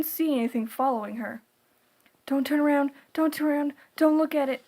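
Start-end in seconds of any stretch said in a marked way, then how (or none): 2.3-4.6 frightened, pleading, higher and near tears; terrified sobbing plea. A narrator's reading. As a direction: beg yourself not to look, half-sobbing. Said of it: "she practically sobbed to herself".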